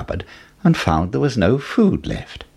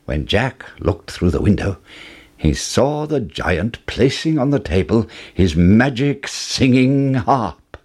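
ordinary delivery

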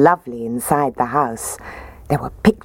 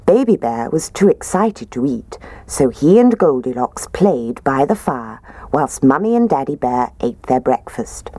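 ordinary delivery, nothing marked

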